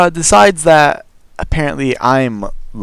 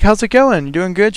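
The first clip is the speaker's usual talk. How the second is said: higher, forced-bright greeting; fake cheerful; 6 semitones higher than usual. Greeting the uninvited girl at his door, faked cheer. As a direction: sound friendly while panicking. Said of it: "I pretend smile".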